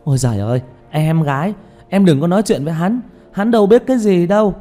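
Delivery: high, loud, gushing fan; starstruck excitement. Acted. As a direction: butt in eagerly, begging for an autograph. Starstruck fan interrupting the singer. (giọng hâm mộ cuống quýt, cao và to)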